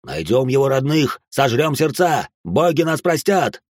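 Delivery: выше и медленно, с ненавистью; угрожай родным мальчика; злобный крик. Acted. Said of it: "зарычали люди в масках". (толпа в масках жаждет крови)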